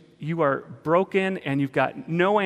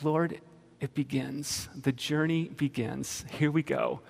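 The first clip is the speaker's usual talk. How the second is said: soft, slow, awed murmur; hushed prayer; 6 dB quieter, slower than usual. Retold or imitated. Retelling his journal entry to the Lord, hushed. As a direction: say it slowly and softly to God.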